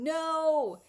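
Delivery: sharp, high, loud no; the guide stepping in to stop you; firm no. Retold or imitated. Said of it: "your guide stepping in going".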